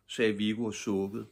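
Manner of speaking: ordinary delivery, nothing marked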